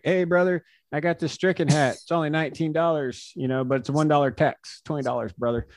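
mock the hat pitch playfully; mocking Josh Hader impression. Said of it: "your Josh Hader impression".

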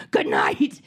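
breathy whispered goodnight. Retold or imitated. Mom wishing to slip away from her son, whispered goodnight. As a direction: whisper it to sneak out. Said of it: "I wanted ... to be like".

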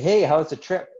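breezy, upbeat check-in, acted out; cheery greeting. Friend's cheery greeting retold.

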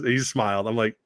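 normal talking voice

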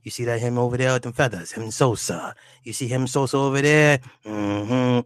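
mock Jamaican patois in natural pitch; Jamaican accent. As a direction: put on patois, building to the last exclamation. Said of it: "talking that Jamaican accent".

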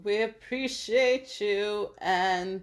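slow, prim rich-lady voice; uppity rich voice. Pretend. Thanking listeners in a put-on rich lady voice. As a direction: speak like an uppity first lady. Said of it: "What accent is that?".

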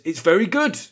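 high, surprised read with a rising finish; pleasantly surprised, lifting up on the last word; slightly surprised. Acted. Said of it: "read it in a sort of slightly surprised way".

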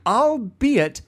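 slow eighties commercial narrator read; commercial narration. Shown as a demonstration. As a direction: read it like an old TV ad. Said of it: "a very good, like, commercial narration reading of, of that comment".

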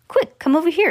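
excited storybook summons; urgent call. A narrator's reading. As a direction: call them over urgently. Wonka urging the others over.

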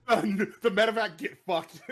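laughing. Real, not acted. Joking, laughing.

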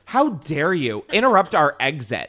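slow, laughing fake indignation; a hammed-up how dare you, through laughter; mock outrage. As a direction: pretend to be scandalised at the crew.

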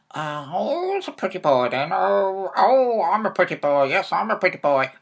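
parrot talk. Pretend. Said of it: "Can you talk like a parrot".

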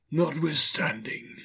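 high, slow spectral voice; Marley's ghost. A narrator's reading. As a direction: stretch the word eerily. The ghost finishes its reply.

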